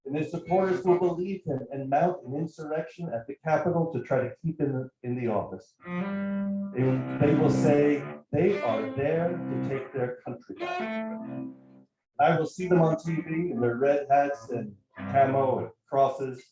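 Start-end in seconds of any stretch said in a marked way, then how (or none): none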